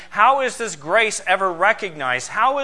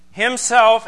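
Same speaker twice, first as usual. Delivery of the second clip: himself leaned on, louder; emphatic himself; 4 semitones higher, 6 dB louder than usual. Shown as a demonstration. Preacher stressing the Greek word himself. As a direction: press hard on himself. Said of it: "emphatic in the Greek".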